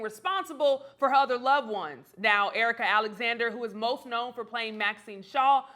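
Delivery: projected entertainment-news intro; scripted TV host delivery; news read. Real, not acted. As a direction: read the story to camera like a presenter. Host reads a news story.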